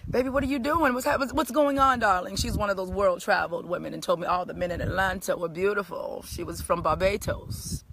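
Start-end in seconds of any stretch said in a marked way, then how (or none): 0.1-2.3 higher, sweet motherly neighbor; lightly voiced caring neighbor asking what's wrong; kindly neighbor voice. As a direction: coo it like a caring older lady.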